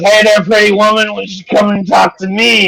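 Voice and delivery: put-on high, slurred drunken come-on; drunk catcaller. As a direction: play the sloppy drunk hitting on her. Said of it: "one guy's so drunk, he goes".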